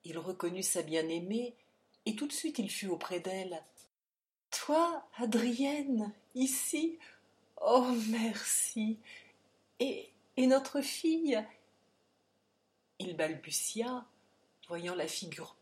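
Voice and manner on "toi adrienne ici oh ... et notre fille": cri aigu de joie et d'inquiétude; joyeuse surprise émue. A narrator's reading. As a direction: haut et fort, pris de surprise. Père bouleversé retrouve Adrienne. (surpris et ému, voix haute et forte)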